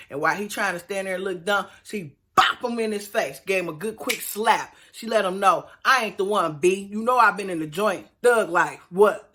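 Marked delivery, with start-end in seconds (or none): 5.8-9.3 put-on loud tough-girl threat; mock prison-tough wife; thug talk. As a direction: get hard and menacing on him. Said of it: "Brittany got thug on him".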